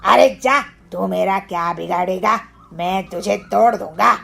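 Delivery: loud scornful brush-off; sneering bully. Acted. Kalu mocks the husband's threat, scornful. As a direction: scoff at him.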